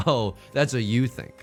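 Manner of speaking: ordinary talk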